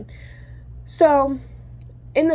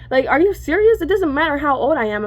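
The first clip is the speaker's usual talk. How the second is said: indignant disbelief; 4 semitones higher than usual. Real, not acted. Outraged at father's excuse.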